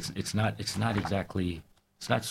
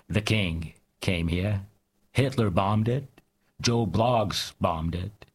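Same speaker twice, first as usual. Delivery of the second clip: measured, deliberate poem recital; poetry reading. Acted. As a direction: read it like a performance poet. Reads his poem aloud.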